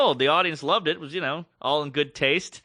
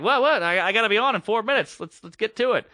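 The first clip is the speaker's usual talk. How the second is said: impatient disbelief; 6 semitones higher than usual. Retold or imitated. Host due on air, being stalled.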